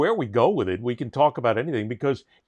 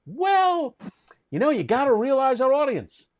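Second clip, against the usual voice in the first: mock program director; 10 semitones higher than usual. Program director brushes off host's objection, mock smug. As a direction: play the shrugging boss. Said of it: "I said".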